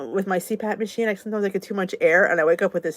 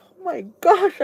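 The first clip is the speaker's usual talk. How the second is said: retold alarm; 9 semitones higher, 4 dB louder than usual. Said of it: "I'm like".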